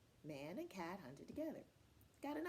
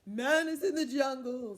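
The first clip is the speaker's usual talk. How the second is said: loud, higher-pitched warning; alarmed leopard; 4 semitones higher, 15 dB louder than usual. Acted. Trembling Leopard warning Cat about Man, loud and alarmed. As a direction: announce danger loudly, with mild alarm. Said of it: "He was trembling".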